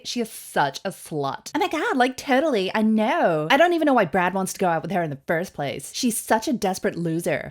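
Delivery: put-on catty gossiping sorority girl; a hint of a valley girl. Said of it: "I sound like a sorority girl".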